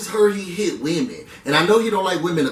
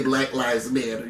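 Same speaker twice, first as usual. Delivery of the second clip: mock quote; 7 semitones lower, 6 dB quieter than usual. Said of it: "I think she'll say".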